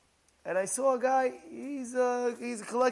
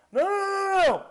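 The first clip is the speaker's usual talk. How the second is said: higher, louder insistent no; emphatic no; 8 semitones higher, 6 dB louder than usual. Real, not acted. Rabbi rejecting the rich man's refusal, loud and emphatic. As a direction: cut it off firmly.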